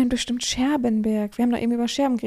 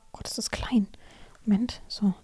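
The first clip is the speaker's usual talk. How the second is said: whispering; 6 dB quieter than usual. Real, not acted. Aside while squinting at screen.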